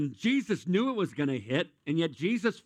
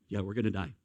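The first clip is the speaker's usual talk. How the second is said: mock flight attendant; 7 semitones lower, faster than usual. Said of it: "they go".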